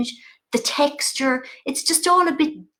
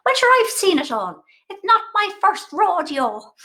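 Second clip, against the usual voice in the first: mammy voice; 8 semitones higher, 4 dB louder than usual. Retold or imitated. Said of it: "And she goes".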